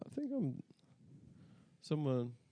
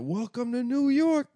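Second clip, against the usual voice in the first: higher, slow mock street call; retold street call; 9 semitones higher than usual. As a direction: call it out slowly like the corner guy. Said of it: "and then he said".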